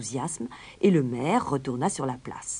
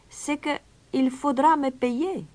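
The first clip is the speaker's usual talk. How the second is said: calmly; 11 semitones higher, 5 dB louder than usual. Acted. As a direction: state the price without hurry. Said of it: "répondit calmement l'étranger". (étranger calme et posé)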